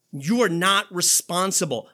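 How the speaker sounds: a loud, hard-hitting line; forceful insistence. Real, not acted. Preacher corrects the congregation with a loud insistence. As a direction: drive the point home.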